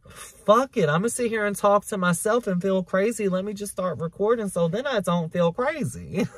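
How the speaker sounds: animated, high-pitched retelling of a sudden resolve; acted-out resolve. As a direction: act out making up your mind on the spot. Acts out her past resolve.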